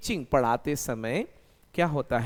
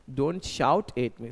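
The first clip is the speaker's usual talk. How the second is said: "Don't shout at me" said slowly, with "shout" stressed and falling; correct slow model; 3 semitones lower, much slower than usual. Shown as a demonstration. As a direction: lay out "Don't shout at me" slowly as the right form. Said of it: "नहीं होता है". (सही वाक्य "Don't shout at me" धीरे से)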